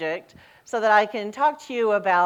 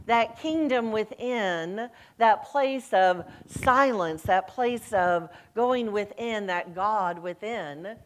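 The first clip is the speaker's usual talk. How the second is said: slow meditative; slower than usual. Acted. Slow contemplative sermon passage.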